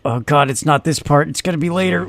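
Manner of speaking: anxious dread. Acted. Player acting out fear of a dark hallway, anxious dread. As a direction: voice your mounting nerves, lightly hammed-up. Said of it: "it's the anxiety of getting to the end".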